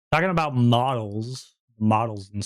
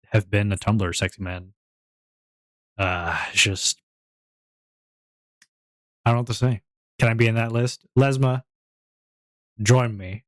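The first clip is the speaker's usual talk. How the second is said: sexy man voice; 4 semitones lower than usual. Pretend. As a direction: play the suave pin-up man. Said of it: "I gotta do the Tumblr sexy man voice".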